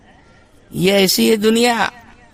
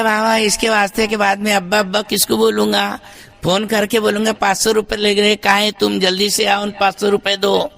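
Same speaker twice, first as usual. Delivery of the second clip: child mocked; 3 semitones higher than usual. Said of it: "تو بولا".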